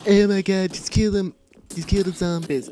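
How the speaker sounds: loud, exclaiming cartoon character voice; Stewie Griffin. Gamer ordering zombie kills, put-on cartoon voice. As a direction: burst out loudly in character. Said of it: "if that was a really good Stewie impression".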